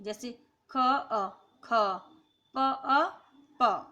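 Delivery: ख and अ said apart, then joined; sounds split apart. Shown as a demonstration. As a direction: break each consonant into its parts, ख, अ, ख. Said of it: "प्रत्येक व्यंजन के उच्चारण में अ की ध्वनि छिपी रहती है". (व्यंजन को तोड़कर धीरे धीरे बोलना)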